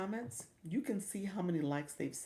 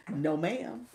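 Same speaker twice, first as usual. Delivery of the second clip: laughing mock scold; 6 dB louder than usual. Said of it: "TikTok's like".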